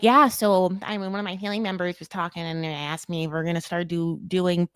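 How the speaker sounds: bad Midwestern accent. Host imitating a reality star, bad Midwestern accent. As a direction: do a half-hearted Midwestern accent. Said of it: "I'm just doing a bad Mid-, Midwestern accent".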